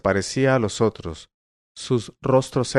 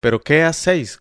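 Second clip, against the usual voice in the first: higher, exclaimed protest; alarmed shout; 5 semitones higher, 4 dB louder than usual. A narrator's reading. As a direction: cry out, angry and scared. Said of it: "gritó Bastián".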